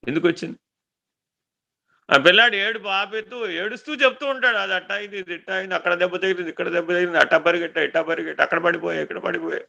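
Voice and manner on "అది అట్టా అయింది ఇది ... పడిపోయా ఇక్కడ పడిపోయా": softer, lightly voiced child reeling off his hurts; a hint of a little boy listing every bump; mild mock child whimpering out his story; child's broken telling. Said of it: "వాడి వచ్చి రాని మాటలతో చెప్తూ ఉంటాడు".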